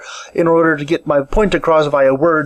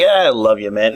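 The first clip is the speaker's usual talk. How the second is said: dry, lower mock-affection; very sarcastic; 7 semitones lower than usual. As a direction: say it like you don't mean it. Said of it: "the very sarcastic".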